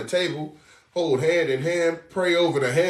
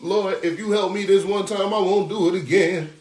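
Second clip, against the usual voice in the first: higher, pleading sinner begging the Lord; mock pleading sinner; 5 semitones higher, 3 dB louder than usual. Preacher imitating sinners begging the Lord for help, mock pleading. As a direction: beg the Lord like a desperate sinner. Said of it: "the first thing Jake and Eve loved to say".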